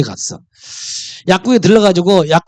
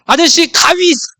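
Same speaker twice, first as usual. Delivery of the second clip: higher, innocent rabbit asking for scissors; sly rabbit voice; 8 semitones higher than usual. Acted. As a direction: play the rabbit sneaking in a trick question.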